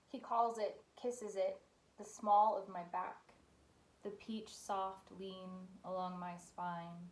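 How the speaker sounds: poet's reading voice, lingering on the phrases; poetry reading. Acted. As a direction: read it unhurriedly, with a pause after each image. Reads third poem aloud.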